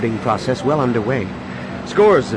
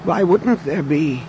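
put-on old man voice; 5 semitones higher than usual.

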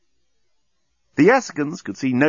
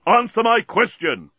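high, slow shouted demand; exasperated shout; 10 semitones higher, 4 dB louder than usual. Acted. Bolfas demanding the parrot answer, exasperated yell. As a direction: shout it, stretching the words out.

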